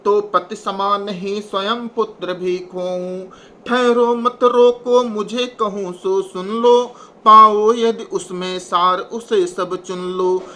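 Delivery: slow, measured recital of Hindi verse; poem recitation. Acted. Teacher reciting Kaikeyi's verse to the class, slow and measured. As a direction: recite the verse slowly and with weight.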